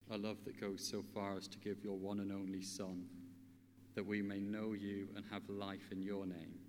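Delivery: measured, earnest prayer with long pauses. Real, not acted. Speaker leads listeners in asking God for love, prayerful. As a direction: pray simply and unhurriedly.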